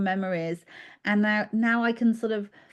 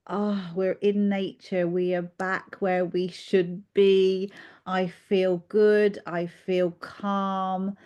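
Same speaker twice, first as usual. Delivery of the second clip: calm inner voice; slower than usual. Retold or imitated. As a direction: let each phrase settle slowly, at peace. Voicing the calm feeling in nature.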